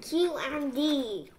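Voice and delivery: talking through food; mouth full. Real, not acted. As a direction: say it while chewing. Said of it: "You're talking with your mouth full".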